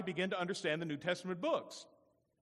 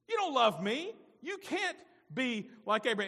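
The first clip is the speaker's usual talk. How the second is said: higher and louder, rising indignation; Jesus confronting the Pharisees, higher, louder; Jesus rebuking; 5 semitones higher, 4 dB louder than usual. Acted. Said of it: "And Jesus told them".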